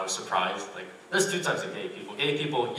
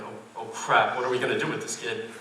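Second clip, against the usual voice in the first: rising, louder and higher mock panic; 6 semitones higher, 4 dB louder than usual. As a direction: staff freaking out over a lone diner. Host panicking over table for one.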